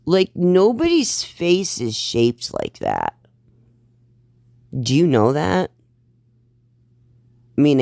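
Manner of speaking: high, incredulous, mocking questions; sassy roast. Real, not acted. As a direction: roast her with disbelief. Roasting the creator on screen.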